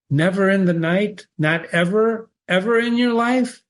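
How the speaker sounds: soft voice. A narrator's reading. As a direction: coax it gently. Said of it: "said the soft voice".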